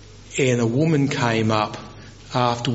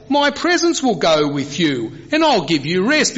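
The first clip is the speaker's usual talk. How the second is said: God replying; 7 semitones higher than usual. Retold or imitated. Preacher voices God's reply to Moses.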